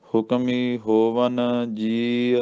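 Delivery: slow chant of ਹੁਕਮੀ ਹੋਵਨ, then a rest; ਹੋਵਨ ਤੇ ਵਿਸਰਾਮ; pause after ਹੋਵਨ. Shown as a demonstration. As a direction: recite slowly and stop at ਹੋਵਨ. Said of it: "ਇੱਥੇ ਵਿਸਰਾਮ ਆ ਜੀ".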